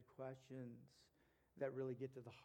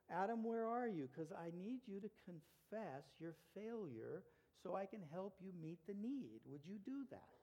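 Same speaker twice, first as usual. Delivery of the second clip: calling out to Adam; 4 semitones higher than usual. Retold or imitated. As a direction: call out, then soften and plead. Preacher voicing God calling Adam.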